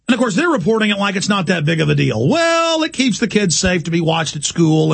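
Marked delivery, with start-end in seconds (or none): 2.3-4.4 a sudden high squeak of mock agreement; sarcastic. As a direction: jump way up on it, sneering. Sarcastic jab at media.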